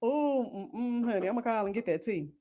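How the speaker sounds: hushed relish for gossip; gossipy aside. Acted.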